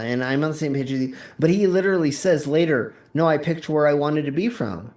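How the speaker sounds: hiccups breaking into the words; talking through hiccups; hiccuping. Real, not acted. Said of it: "Sorry, I keep hiccuping".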